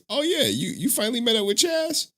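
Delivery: high mock friend voice; quoting a friend. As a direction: squeak it out as the friend. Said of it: "They was like".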